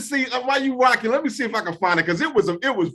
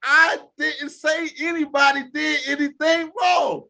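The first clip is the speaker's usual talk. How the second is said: mocking Saban; 7 semitones higher, slower than usual.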